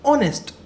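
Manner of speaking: ऑनेस्ट said with a silent h, opening on the vowel O; silent h demo. Shown as a demonstration. Teacher shows students ऑनेस्ट starts with an O sound, silent h. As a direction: say ऑनेस्ट as "onest", with no h sound at all. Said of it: "इसको ऐसे ही बोलते हैं ना".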